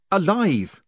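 high, panicked gasp; gasping in fear. A narrator's reading. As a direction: gasp the word out, terrified. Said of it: "he gasped".

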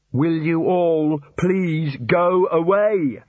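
loud, slow, exasperated shout. Acted. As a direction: yell at them to leave. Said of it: "Rincewind shouted".

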